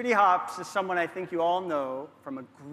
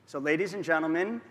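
louder announcer call on the name; announcer build-up; 4 dB louder than usual. Real, not acted. Host introducing the star to the crowd, announcer call.

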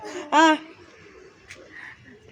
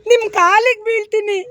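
acted tearful begging. Shown as a demonstration. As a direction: demonstrate begging on the edge of tears. Coach models begging through tears. (ಅಳುತ್ತಾ ಬೇಡಿಕೊಳ್ಳುವ ನಟನೆ)

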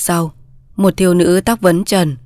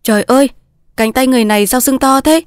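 higher-pitched cry of mild alarm; alarmed exclamation; 5 semitones higher than usual. Acted. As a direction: exclaim in startled concern. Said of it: "la lên". (hốt hoảng la lên)

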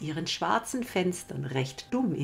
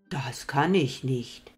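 put-on kind old moon; 3 dB louder, slower than usual. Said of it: "sagte der gute alte Mond".

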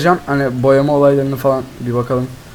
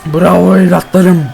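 excited cheer; 2 semitones higher, 4 dB louder, much slower than usual. Real, not acted. Goal celebration.

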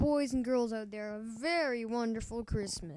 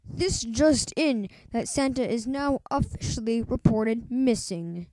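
news anchor. Acted. Radio news bulletin.

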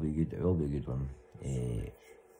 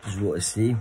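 loud, raised declaration; emphatic; 5 semitones higher, 6 dB louder than usual. Real, not acted. Vlogger to viewers, loud emphatic announcement. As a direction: announce it boldly to the camera.

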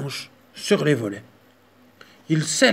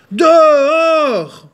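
loud, much higher roar; roaring bear; 13 semitones higher, 12 dB louder than usual. Acted. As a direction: roar the mouse out. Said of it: "rugit l'ours".

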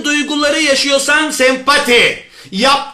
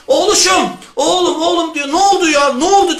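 concerned mother; 5 semitones higher than usual. Acted. Mother questions upset son.

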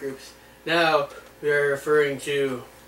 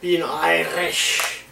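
put-on slow Irish accent; much slower than usual. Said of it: "Oh, I can do it".

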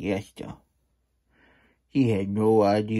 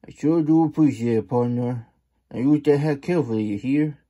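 fast coyote; 4 semitones higher, 3 dB louder, faster than usual. Acted. Coyote hurrying off.

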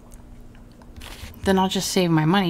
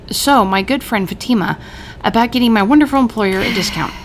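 sly persuasion; 5 semitones higher, 5 dB louder than usual. Shown as a demonstration. Mistress nudging Fatima for a discount, sly. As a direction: coax a discount out of her.

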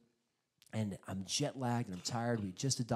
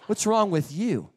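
mock adult tantrum; 10 dB louder than usual. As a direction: throw a hammed-up tantrum. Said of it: "grumpy and adult tantrums".

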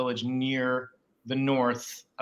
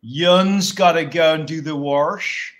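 slow, louder Western Pennsylvania Pittsburgh twang; Western Pennsylvania accent; 8 dB louder, slower than usual. Retold or imitated. Teasing the host about his Pittsburgh mom, slow Western Pennsylvania accent. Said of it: "that Western Pennsylvania accent".

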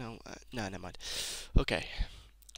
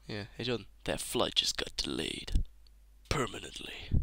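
gruff soldier voice; 4 semitones lower, 5 dB quieter than usual. Acted. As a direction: growl it like a hard-bitten soldier. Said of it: "that's some good vo-, do that voice again".

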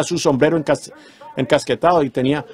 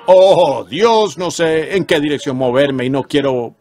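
prayer; slower than usual. Acted. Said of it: "voy allá con este propósito diciendo".

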